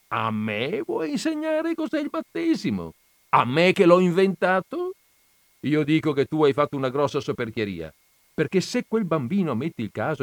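high, loud, scolding voice; indignant Christ. A narrator's reading. Jesus scolding Don Camillo about baptism, high and loud. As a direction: lecture him from above, outraged.

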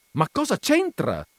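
loud, high indignant shouting. Acted. Veneranda shouting at the shop clerk, loud and indignant. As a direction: rant at him out of patience. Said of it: "gridò il signor Veneranda".

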